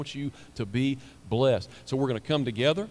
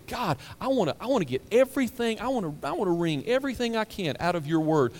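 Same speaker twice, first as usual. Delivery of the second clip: earnest prayer; 6 semitones higher than usual. Pretend. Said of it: "and say".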